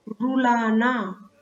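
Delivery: रुलाना said slowly and clearly; slow model word. Shown as a demonstration. Teacher to pupils, reads रुलाना slowly. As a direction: drag out रुलाना syllable by syllable. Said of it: "ये होगी बड़े ऊ की मात्रा".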